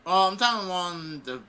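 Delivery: ordinary talk, nothing marked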